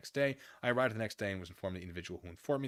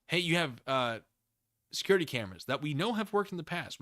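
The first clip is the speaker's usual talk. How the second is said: mock cop voice; 7 semitones higher, 6 dB louder than usual. Voices police asking.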